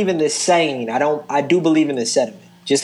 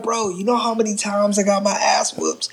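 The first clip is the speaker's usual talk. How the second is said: whispering; 4 semitones higher, 5 dB quieter than usual. Retold or imitated. Cousin's confession retold.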